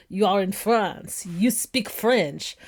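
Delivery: slow, deliberate and firm; a waitress firmly putting a demanding tourist in place. Retold or imitated. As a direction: spell it out slowly to a rude tourist. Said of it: "the waitresses would be like".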